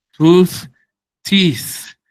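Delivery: Tooth and teeth said high and loud as models; teacher modelling singular and plural; model words. Shown as a demonstration. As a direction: punch Tooth then teeth clearly. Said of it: "Diente, dientes".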